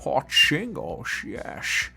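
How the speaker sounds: hammed-up slow repeat; mock voice. Mimicking a viewer's phrase.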